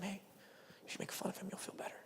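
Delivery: soft, tempting whisper; devil's whisper. Retold or imitated. Preacher voicing the devil tempting a teen, whispering. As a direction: whisper the temptation close to the ear. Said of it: "he, like, whispers to them".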